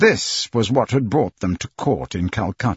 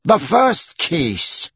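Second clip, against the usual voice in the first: very slow, raised official call; judge calling court; 6 semitones higher, much slower than usual. Acted. Judge repeats his call to the court, drawn out. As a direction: stretch each word out as an order.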